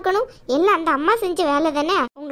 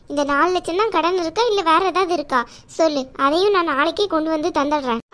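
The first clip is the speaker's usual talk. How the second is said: caring aunt voice. Acted. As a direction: play the protective chithi, chiding but kind. Aunt consoling niece Saraswathi.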